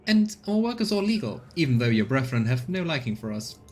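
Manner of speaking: a hint of grim colonist woman. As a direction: grimly defend the crew's work. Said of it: "she grimly adds".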